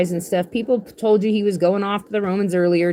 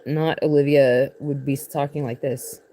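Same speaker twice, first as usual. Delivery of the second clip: impersonating a viewer; 5 semitones lower than usual. Acted. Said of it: "That's my impersonation of not Olivia".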